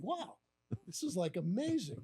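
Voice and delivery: high "wow", easing down; smiling amazement. Retold or imitated. Manager basking in his boss's praise, amazed. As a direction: retell delighted awe through a smile. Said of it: "with a big smile on my face".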